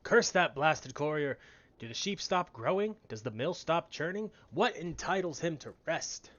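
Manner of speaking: slow, loud hammy villain miller; slow theatrical villain menace. Acted. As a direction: ham up a scheming villain, slow and booming. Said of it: "I gave you a voice that sounded like a villain".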